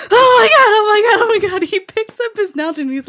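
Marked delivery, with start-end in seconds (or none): 0.1-1.6 laughing imitation of mild panic, loud at the start; mock freak-out. Wife imitating her sleepwalking husband, mock freak-out. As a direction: mimic someone freaking out through giggles. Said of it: "freaks out. He's like".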